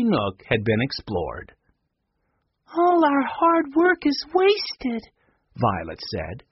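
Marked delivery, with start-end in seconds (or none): 2.7-5.0 dismayed. A narrator's reading. Violet despairs over ruined library.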